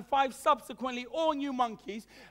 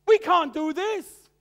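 a raised, stern refusal, higher and louder; stern church elder; 3 semitones higher, 7 dB louder, much slower than usual. Acted. Church elder forbids Sabbath school after worship, stern and loud. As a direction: slap down the idea like an old deacon. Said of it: "But then somebody said".

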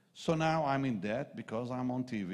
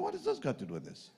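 puzzled inner thought; 12 semitones higher, 3 dB quieter, faster than usual. Retold or imitated. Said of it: "I'm thinking".

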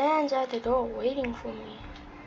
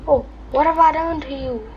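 mock whining; 4 semitones higher than usual. Real, not acted. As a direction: whine at the chaser. Whining at game chaser.

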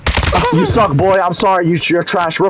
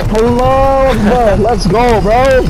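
gym bro hype; 4 semitones higher than usual. Real, not acted. Hype after winning the match.

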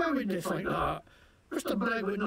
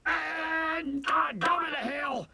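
a yelled outburst, pitched up; defiant shout; 6 semitones higher, slower than usual. Acted. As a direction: bellow it out, high and pushed. Prisoner yelling defiantly.

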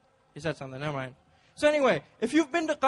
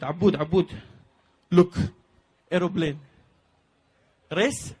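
put-on Gulf Arab accent; 3 semitones lower, 5 dB louder than usual. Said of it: "the conversation sounded like this".

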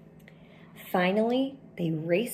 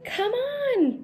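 high, louder eager call to a friend; 3 dB louder than usual. Acted. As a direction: wave your buddy over excitedly. Bear waves Mole over.

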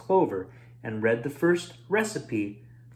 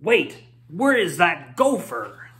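mild snarl; 3 semitones higher than usual. Acted. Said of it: "froze and snarled".

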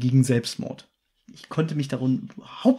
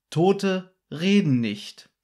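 langsam, dunkel drohend; leicht gespielte Drohung, gedehnt; 3 semitones higher, much slower than usual. Retold or imitated. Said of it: "drohende Botschaft". (der Anrufer droht den Jungs, langsam und unheimlich)

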